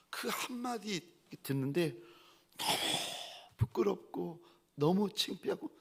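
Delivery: ordinary talk, nothing marked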